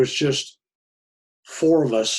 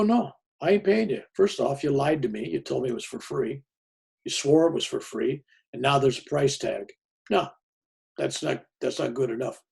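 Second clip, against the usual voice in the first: indignant refusal; 3 semitones higher than usual. Retold or imitated. Narrator refusing to pay.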